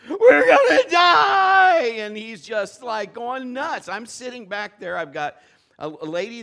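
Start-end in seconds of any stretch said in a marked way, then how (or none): 0.1-1.8 very high, loud, slow mock wail; screaming and crying. Drunk passenger panicking at takeoff, loud high wail. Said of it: "He starts screaming and crying".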